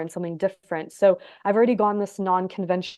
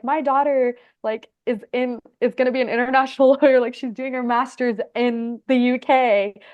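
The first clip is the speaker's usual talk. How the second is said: proud dad; 3 semitones higher than usual. Retold or imitated. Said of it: "he was so proud of that".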